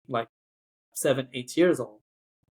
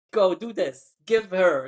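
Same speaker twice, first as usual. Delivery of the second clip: imitating a bossy colleague, pitched up; 4 semitones higher, 4 dB louder than usual. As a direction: hand out orders, mock bossy. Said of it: "bossing me around".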